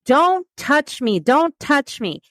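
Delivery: imitating a scared patient pushing staff away; retold panicked scream. Patient on the scanner fends off staff, mock frightened yell. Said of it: "she started screaming".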